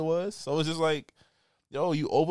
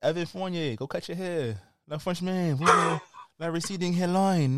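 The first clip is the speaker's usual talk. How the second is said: mock French accent for Fournier; put-on accent; 3 semitones higher than usual. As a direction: tease in a fake accent. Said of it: "You didn't have to put that accent on".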